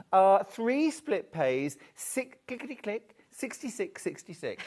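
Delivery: playful bingo caller calling numbers. Pretend. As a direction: call the numbers like a bingo hall host, half laughing. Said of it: "would just love to be a bingo caller".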